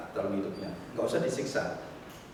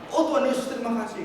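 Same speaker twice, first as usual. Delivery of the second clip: mock pious gratitude; 11 semitones higher, faster than usual. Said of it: "Terus gimana?".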